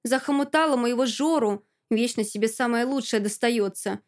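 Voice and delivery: mild spiteful outburst, pitch pushed up; jealous rant, spat out unevenly; spiteful hissing. Acted. Alka accusing her friend of stealing Zhora, mildly spiteful. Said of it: "шипит змеёй".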